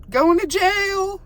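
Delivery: high, slow yell of the words. Real, not acted. Vlogger yelling at the arrests, slow and loud. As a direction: call it out long and loud. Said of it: "I'm yelling".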